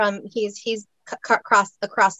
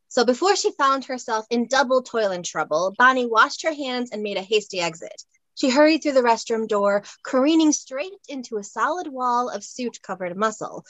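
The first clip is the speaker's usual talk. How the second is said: expressive read-aloud of a light romance; story narration. A narrator's reading. Author reads her romance scene to the host, expressive narration.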